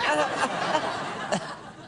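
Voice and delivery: hammed-up feeble coughing; put-on poorly coughing fit; fake sick cough. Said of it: "sound a little bit more sick".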